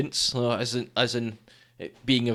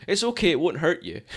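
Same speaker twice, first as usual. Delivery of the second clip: mock reassuring owner; 6 semitones higher than usual. Dog owner mimicked.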